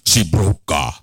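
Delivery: put-on Trinidadian accent. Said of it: "he sounds like this, the Uncola".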